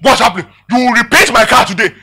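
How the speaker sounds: loud, mildly heated demand; mock an angry driver making demands; acted anger. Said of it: "just because of the anger".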